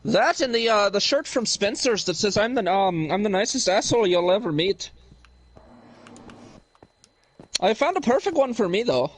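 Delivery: lightly put-on Irish accent; casual mock Irish brogue for laughs. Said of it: "really good at the accent".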